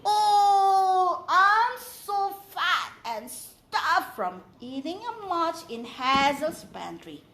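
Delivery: contented, slow and full; happy stuffed sigh. A narrator's reading. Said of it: "Father Mix often says happily".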